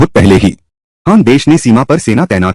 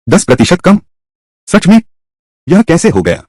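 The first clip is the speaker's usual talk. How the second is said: can't believe the tax cut order; shocked disbelief; 7 semitones higher than usual. Acted. Official reacting to the king's tax cut, shocked and higher. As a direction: voice jumps higher in stunned disbelief.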